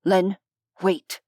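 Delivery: put-on low warning in an English accent. A narrator's reading. Vampire holds back Len, English accent. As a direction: caution him with an English accent. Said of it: "in a pronounced English accent".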